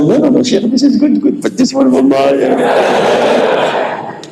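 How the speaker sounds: squeaky high-pitched mock of a fan's excuse.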